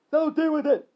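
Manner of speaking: high, loud defiance; yelling back. Acted. Harry standing up to Isaac, high yell. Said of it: "Harry yelled back".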